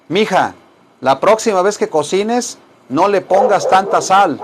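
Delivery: lightly acted advice to a señora; mild mock admonishing. Teacher role-plays telling a señora about salt, mildly admonishing. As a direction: raise it a little, as if telling mija off. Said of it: "díganle así a la, a la señora".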